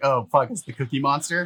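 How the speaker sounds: usual speaking voice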